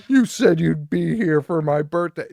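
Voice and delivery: hammed-up child's complaint; whiny kid yell. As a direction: bawl at dad like a spoiled kid. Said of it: "the son is equally nuts".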